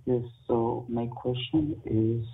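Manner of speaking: muffled bad phone line; underwater. Real, not acted. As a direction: caller sounding underwater. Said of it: "Sounds like you're underwater".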